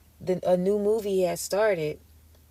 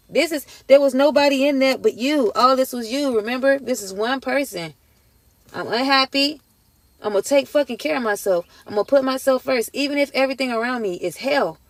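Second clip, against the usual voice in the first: higher and louder, fervent and rising; impassioned; 5 semitones higher, 5 dB louder than usual. Real, not acted. Reader urging viewers through their painful healing, impassioned. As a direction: preach it with rising fervor.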